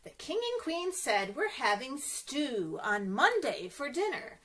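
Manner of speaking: gentle storybook read-aloud; reading to children. A narrator's reading. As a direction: read it like storytime for little ones. Reads picture book to children.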